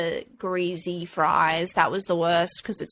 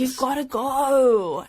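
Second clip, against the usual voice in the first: slow emphatic; 4 semitones higher, much slower than usual. Acted. Echoing slogan slowly.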